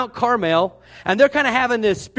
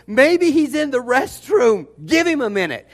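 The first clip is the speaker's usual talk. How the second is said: higher, louder mock suggestion; sarcastic jab; 4 semitones higher, 3 dB louder than usual. Elijah mocking the prophets, loud sarcastic jab. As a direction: tease them, deadpan sarcasm pushed up. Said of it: "'cause he's a little sarcastic".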